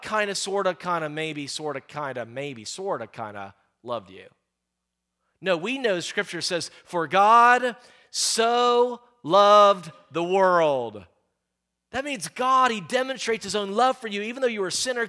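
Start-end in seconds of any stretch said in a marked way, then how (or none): 0.0-4.3 mock shrug of a hedge. Mocking a half-hearted God. 6.8-11.1 slow, loud, ringing proclamation; the preacher's big slow proclamation; preached verse. Acted. Preacher quoting the key verse.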